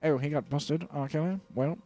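lightly put-on British accent. Singer plotting his move, mock British accent. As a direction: play him as a British character. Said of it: "Every character we do is gonna be British".

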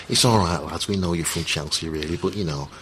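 patronising Scouse accent put on for a laugh; a lightly done Scouse fan talking down to visitors; mock Scouse accent. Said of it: "I'm doing a Scouse accent".

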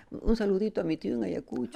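high singsong greeting; Peruvian TV shoutout. Shown as a demonstration. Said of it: "Así hacen con los peruanos".

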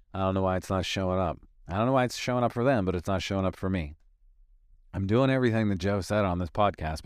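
fast, fretful self-pity; mock whining about not manifesting; whiny complaining. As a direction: rattle off your complaints, anxious. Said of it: "walk around and say".

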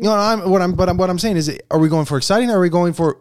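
high, insistent interjection; heated objection. Real, not acted. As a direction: jump in to argue the point. Cutting in to clarify the argument.

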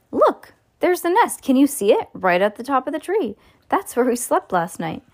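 put-on high, eager child's exclamations; excited boy. A narrator's reading. William showing the visitor the nest, excited boy. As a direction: point it out excitedly, pitch way up.

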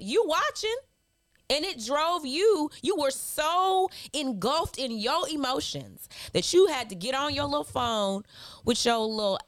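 high, teasing put-down; mocking taunt. Host mocks a hateful commenter, teasing and high. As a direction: needle the troll like a playground taunt.

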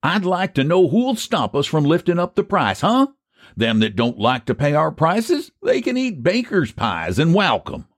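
high-pitched, cocky country boast; triumphant. A narrator's reading. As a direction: dare anyone to stand in your way. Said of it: "said Phineas triumphantly".

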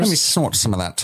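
a jittery cokehead elf; mock cokehead. Coked-up Celebrimbor joke voice.

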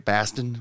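questioning rise on "Boston"; "Boston" as an unsure outsider's try; attempted Boston pronunciation. Shown as a demonstration. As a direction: say "Boston" with a flat vowel, BASS-tin, tentatively. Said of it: "did I say that right?".

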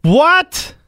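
stunned high "what?"; shocked. Real, not acted. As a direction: blurt it out in disbelief. Shocked at manatee assault story.

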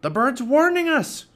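high, loud panicky shout; Pinky shouting. A narrator's reading. Pirate warning his mates about the bird, shouting high. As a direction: cry out in alarm. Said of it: "shouted Pinky".

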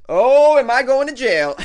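high, loud gasp of fake panic; mock alarm. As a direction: yelp it like you're suddenly guilty. Mock alarm at a silly law.

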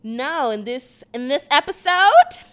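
put-on high, bright valley girl voice; white girl voice. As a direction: pretend to be a stuck-up pretty girl. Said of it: "do the white girl voice".

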